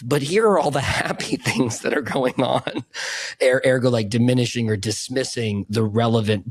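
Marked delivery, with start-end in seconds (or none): 0.0-2.8 higher, mock-cheery with a laugh; positive spin. Passenger in the car to sad friend, mock-cheerful. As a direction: chirp a parody of relentless positivity. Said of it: "often likes to lead with".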